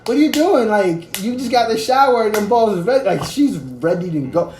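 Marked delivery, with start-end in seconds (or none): 0.1-3.1 mock girlfriend. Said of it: "to him".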